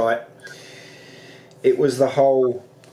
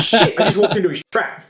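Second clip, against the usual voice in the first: 1 laughing realisation; 4 semitones higher, 3 dB louder than usual. Retold or imitated. Realising he was tricked.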